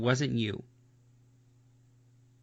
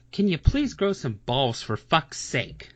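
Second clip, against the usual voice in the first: raised, pleading, fed-up voice; exasperated plea; 2 semitones higher, 4 dB louder than usual. Real, not acted. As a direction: beg her loudly, half laughing.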